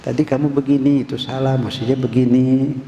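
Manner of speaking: put-on mildly gentle correction of a child; a touch of kindly parental advice; polite, gentle parent. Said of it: "sopan ngomongnya".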